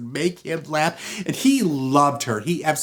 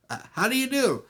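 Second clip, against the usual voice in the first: high, timid little man's hello; meek greeting; 12 semitones higher, faster than usual. Acted. Little man meeting the jealous husband, meek. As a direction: greet him in a small raised voice.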